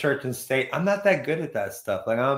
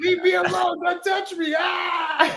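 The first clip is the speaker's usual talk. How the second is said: high, shouting cartoon booger; 11 semitones higher than usual. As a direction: squeal like a panicky booger. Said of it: "I'm the new Mucinex booger guy".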